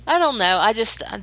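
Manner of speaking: talking through a yawn; words stretched by a yawn. Real, not acted. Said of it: "and I just yawned".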